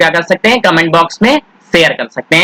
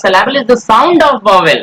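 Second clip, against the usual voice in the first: slow definition; 3 semitones higher, much slower than usual. Shown as a demonstration. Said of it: "teacher stressing definition".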